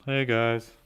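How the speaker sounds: Gay Robot. Retold or imitated. Streamer testing an impression for chat, lightly robotic. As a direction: chirp it as a goofy robot. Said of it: "more like Gay Robot".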